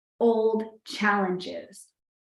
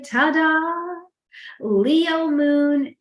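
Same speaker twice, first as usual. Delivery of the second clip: ta-da; 6 semitones higher, 5 dB louder, much slower than usual. Acted. Announcing the Leo moon's arrival.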